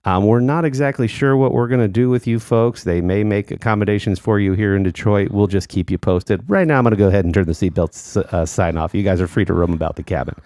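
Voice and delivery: lightly voiced announcer-style captain; a hint of a stadium announcer; baseball announcer voice. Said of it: "I sound like the baseball announcer".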